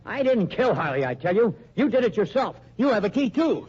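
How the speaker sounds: loud, rising, panicked protest; angry denial. Acted. Accused henchman yelling back at his boss.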